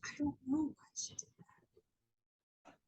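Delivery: slow, near-whispered answer; hushed reply. Retold or imitated. Answering a worried colleague, slow hushed whisper. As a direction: answer slowly, almost under the breath.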